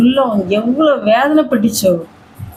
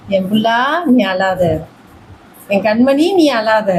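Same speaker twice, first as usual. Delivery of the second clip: tender comfort; 4 semitones lower than usual. Acted. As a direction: gently tell your beloved child not to cry. God consoling a crying believer.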